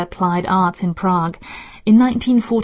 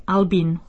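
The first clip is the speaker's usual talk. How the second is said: Albin with stress on AL and a long ee; careful demonstration of Albin as AL-been. Shown as a demonstration. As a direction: stress the first syllable of Albin, then lengthen the second vowel. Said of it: "R is stressed, the E is long".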